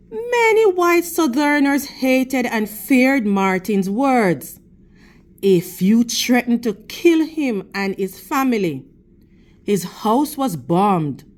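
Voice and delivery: steady, expressive storybook reading to a class; reading to children. Acted. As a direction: read the picture book to the kids, clear and measured. Teacher reads picture book aloud.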